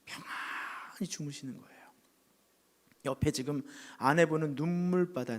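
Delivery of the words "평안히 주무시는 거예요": hushed whisper about him falling asleep. A narrator's reading. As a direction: whisper as if not to wake him. Hushed peaceful moment. (속삭이듯 조용히)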